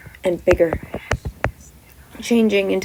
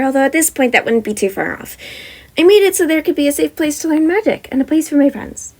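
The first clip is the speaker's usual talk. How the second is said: put-on wizard girl explaining; 4 dB louder than usual. Wizard headmaster telling students about her empire, chatty. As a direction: explain it brightly, a bit proud.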